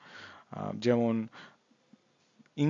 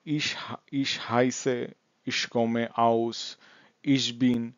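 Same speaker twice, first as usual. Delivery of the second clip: slowly read, phrase by phrase; slow sentence frames; much slower than usual. Shown as a demonstration. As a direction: leave gaps for learners to fill. Teacher reads out sentence frames. (ধীরে ফাঁক রেখে পড়া)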